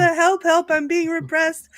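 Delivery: high, loud, slowed mock cry; mock yell. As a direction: ham it up like an oppressed peasant. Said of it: "I'm going to scream".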